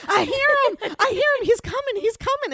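put-on very high, loud excited child; excited kid. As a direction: squeal like a thrilled kid.

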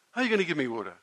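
measured, pointed mocking question. Woman repeating her taunt to the teacher, slow and sarcastic. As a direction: repeat the jab slowly to rub it in. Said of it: "in the most sarcastic tone".

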